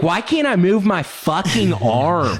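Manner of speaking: slow, high, drawn-out complaint; hammed-up morning-after alarm; mock bewildered wail. Fraternity brother waking up hurt, high bewildered wail.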